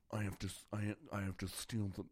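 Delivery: a lightly voiced Nicolas Cage; Nicolas Cage impression. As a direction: mumble it like a mild Nicolas Cage. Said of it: "is that, like, an impression?".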